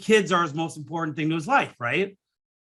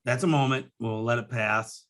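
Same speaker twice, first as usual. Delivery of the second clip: choked up; 5 semitones lower, 4 dB quieter than usual. Real, not acted. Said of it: "it's emotional to me".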